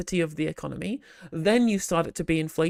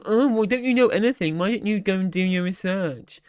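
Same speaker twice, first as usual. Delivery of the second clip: mock angry replier. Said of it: "getting all mad".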